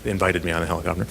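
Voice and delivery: mock-polite euphemism said softly and fast; wry correction. Shown as a demonstration. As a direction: quickly swap in the polite word, deadpan.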